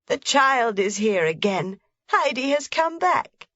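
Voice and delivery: put-on rising, glad old woman calling. A narrator's reading. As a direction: greet Heidi with joy. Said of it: "the grandmother called out".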